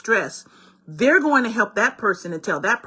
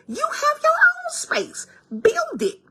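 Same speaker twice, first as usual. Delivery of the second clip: much higher, slow, ending in a whispered Build it; exasperated; slower than usual. Retold or imitated. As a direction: push them off, then whisper the order. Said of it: "And I'm like".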